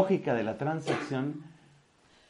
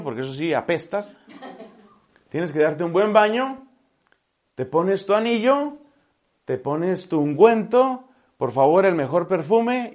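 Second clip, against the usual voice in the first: joyful father; 3 semitones higher, 5 dB louder than usual. Acted. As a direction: welcome him home with a joyful shout. The father welcoming the son. (padre eufórico, más fuerte y agudo)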